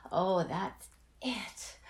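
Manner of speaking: ordinary talk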